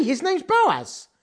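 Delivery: slow plain phrasing. Shown as a demonstration. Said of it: "Do you speak like that?".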